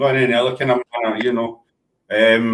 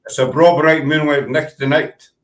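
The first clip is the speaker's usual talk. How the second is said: Scottish accent. Shown as a demonstration. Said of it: "you need to learn the accent first".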